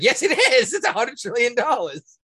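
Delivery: mock-indignant, the bill is real; insistent. Retelling arguing with his friend over the bill, insistent. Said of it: "I was like".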